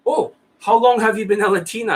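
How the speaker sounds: mocking clueless student. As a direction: ham up an awkward guy's follow-up question. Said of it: "Another stupid Jan lifestyle, like, question".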